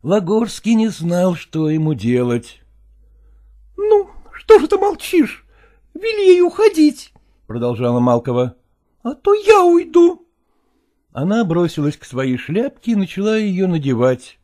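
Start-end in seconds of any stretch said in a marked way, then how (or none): 3.2-7.1 higher, louder demand; insisting mistress. Acted. 8.8-10.3 threatening mistress. Acted.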